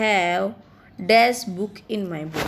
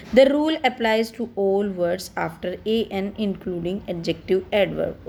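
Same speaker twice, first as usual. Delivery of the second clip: slow reading; much slower than usual. Shown as a demonstration. Teacher reads rule to class.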